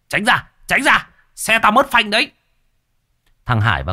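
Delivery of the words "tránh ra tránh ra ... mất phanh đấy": high, loud yell out the car window; shouting. A narrator's reading. Long yells from the runaway car, shouting. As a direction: scream a warning. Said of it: "thò cổ ra bên cửa hét".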